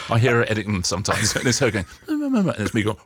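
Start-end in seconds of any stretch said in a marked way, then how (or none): 2.1-2.5 high, clipped hums, mock-judging; playful high mm-mm hums; imitated humming. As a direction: hum disapprovingly, high up. Wife humming while editing tapes.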